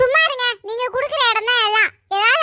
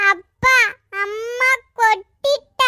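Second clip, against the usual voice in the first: put-on slow, sobbing childish wail; crying child; 2 semitones lower, much slower than usual. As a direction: wail a drawn-out complaint to dad. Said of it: "அழாத மக்களே".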